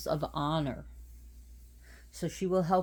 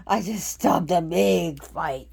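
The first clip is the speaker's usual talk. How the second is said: out of breath; 8 dB louder, slower than usual. Real, not acted. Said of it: "whew, I'm out of breath".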